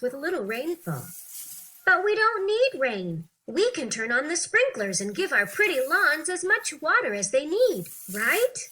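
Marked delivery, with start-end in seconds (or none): 1.9-8.6 higher, brighter questioning voice, lightly acted; mildly acted questioner testing the expert; curious interviewer. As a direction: play the doubting interviewer with a hopeful lift.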